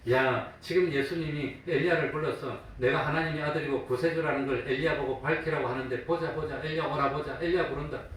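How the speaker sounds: mocking. Bystanders scoff at Jesus claiming sonship, lightly mocking. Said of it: "그러고 조롱했다고 하는 겁니다".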